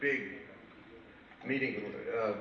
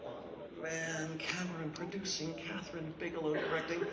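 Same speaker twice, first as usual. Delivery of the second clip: inner thought; 5 semitones higher, 6 dB quieter than usual. Retold or imitated. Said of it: "Now I'm sitting back and thinking".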